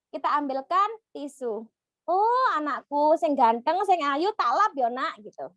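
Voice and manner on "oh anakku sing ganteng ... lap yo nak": tender mother. Acted. Mother soothing child after crying.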